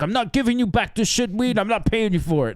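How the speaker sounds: put-on high, indignant drunk voice; drunk defiance. Drunk passenger voiced in argument.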